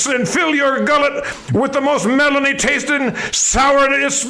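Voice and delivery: lightly barked military pitch; a hint of a drill sergeant. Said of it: "I'm Major Melon".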